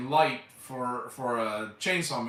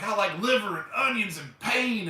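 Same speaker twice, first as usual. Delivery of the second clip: imitating Chop Top; 7 semitones higher than usual. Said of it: "he's like".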